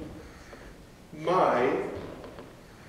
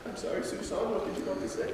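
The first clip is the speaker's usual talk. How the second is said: breathy soft; 2 semitones lower, 10 dB quieter, faster than usual. Acted. Breathy soft after kick.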